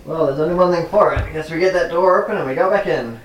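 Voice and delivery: lightly sarcastic, pitched a little up. Acted. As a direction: offer the plan with mild sarcasm. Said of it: "I say sarcastically".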